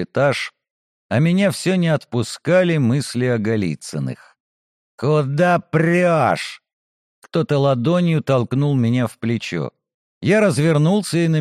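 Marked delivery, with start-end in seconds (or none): 5.0-6.6 put-on drunken rude challenge. Drunk noble shoves hero.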